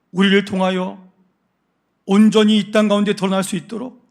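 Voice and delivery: fervent prayer. Real, not acted. Pastor leads the congregation in closing prayer, slow and fervent. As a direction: pray with rising earnest force.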